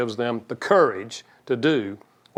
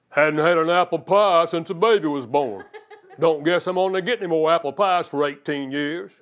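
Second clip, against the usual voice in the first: sarcastic complaint; 2 semitones higher than usual. Retold or imitated. Husband hinting sarcastically at wife for apple pie. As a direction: whine a passive-aggressive hint. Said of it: "Love doesn't say".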